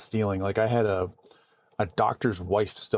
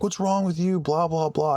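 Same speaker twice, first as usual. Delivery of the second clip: higher-pitched mock angry driver; mock outrage, pitched up; retold mild yell; 7 semitones higher than usual. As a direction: imitate a road-rager confronting you. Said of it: "scream at me".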